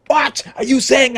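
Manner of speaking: sudden high, loud indignant snap; mock outraged retort; indignant outburst. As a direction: fire it back like an offended hothead. Hypothetical angry reply to criticism.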